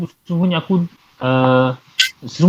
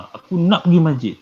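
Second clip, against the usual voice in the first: "nak" pressed harder than the other words; emphatic intonation; 2 semitones higher than usual. Shown as a demonstration. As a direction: stress on "nak" in "aku nak pergi masjid". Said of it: "kita kuatkan suara kita kan".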